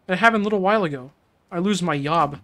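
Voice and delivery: lightly put-on broken foreign accent, y for j; broken-English accent. Woman in the street tells Kiryu her troubles, lightly put-on broken accent. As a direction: play the stranded woman with a hint of a foreign accent. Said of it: "There is not a real person that talks like this".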